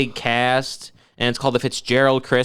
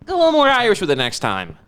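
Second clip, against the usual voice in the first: mock advice; 2 semitones higher than usual. Mock lecture to director, high.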